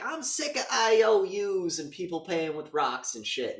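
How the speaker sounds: mock fed-up prostitute. Voicing a frustrated prostitute character.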